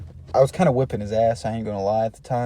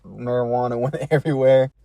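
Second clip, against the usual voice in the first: real laugh breaking into the words; fighting off the giggles; laughing while talking. Real, not acted. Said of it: "I had a little laugh sesh".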